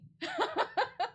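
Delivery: a bright, high burst of giggling; high giggle. Real, not acted. Vlogger cracking up at her own story, high giggle. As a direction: giggle at your own silly example.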